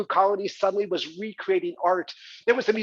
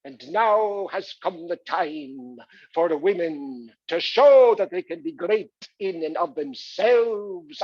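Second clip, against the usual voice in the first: stage monologue; 3 semitones higher than usual. Acted. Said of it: "this incredible monologue where she said".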